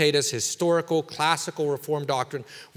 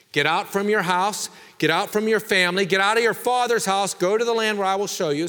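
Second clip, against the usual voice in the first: raised, louder commanding voice of God; voicing God's command; 6 semitones higher, 4 dB louder than usual. Preacher voicing God's call to Abram, commanding. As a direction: proclaim it as God calling Abram. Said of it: "God's given Abram other commands".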